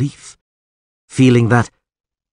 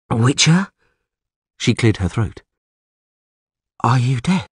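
sorceress voice; 3 semitones higher than usual. A narrator's reading. Yennefer voiced, quiet concern.

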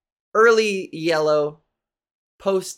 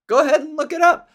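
higher and louder mocking taunt; mock smug taunt; 9 semitones higher, 5 dB louder than usual. Mocking a know-it-all friend, a loud smug taunt. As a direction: throw it back at him, smug and loud.

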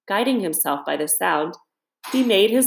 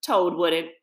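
laughing heartily; 10 semitones higher than usual. A narrator's reading. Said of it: "laughing heartily".

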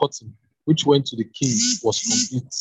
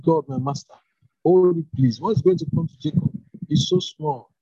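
urgent plea; 4 semitones higher than usual. Acted. Prophet pleads again more urgently.

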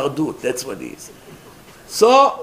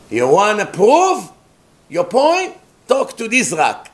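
higher-pitched taunting challenge; mock challenge; 5 semitones higher, 3 dB louder than usual. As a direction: dare him to prove it. Scoffers challenge Moshe in retold story.

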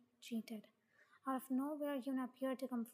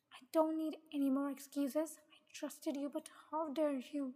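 louder, accusing outburst; hurt anger; 4 dB louder than usual. Acted. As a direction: reject the excuses with mild acted anger. Betrayed boyfriend rejects excuses.

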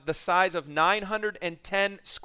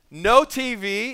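slow, louder mock scolding; angry mother; 4 semitones higher, 5 dB louder, much slower than usual. Frustrated mother punishing her son, slow and louder. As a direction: lay down the law to him slowly. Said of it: "going after her son".

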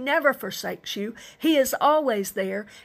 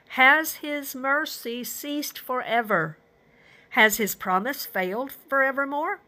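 raised, questioning psalm reading; scripture reading; 3 semitones higher than usual. Acted. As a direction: read the psalmist's pleading questions aloud. Reads the psalmist's anguished questions aloud.

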